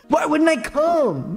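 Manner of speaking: high, slow, exaggerated delivery; acted indignant question. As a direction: ask it high and drawn out. Retake of Nick's acted line.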